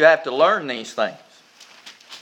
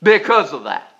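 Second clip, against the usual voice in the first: grateful prayer; 4 semitones higher, 3 dB louder than usual. Retold or imitated. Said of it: "to say to God".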